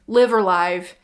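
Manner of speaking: Live said with a short i, then Live with a long i; weighing both ways of saying Live; two pronunciations tried. Shown as a demonstration. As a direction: try Live as "liv" then as "lyve". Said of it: "I should have looked up these pronunciations".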